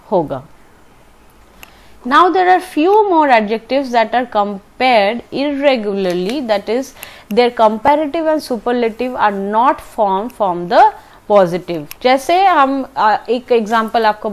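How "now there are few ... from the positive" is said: slow, even textbook dictation; teacher reading a grammar rule slowly. Shown as a demonstration. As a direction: read the rule out carefully for students. Reads grammar rule from book.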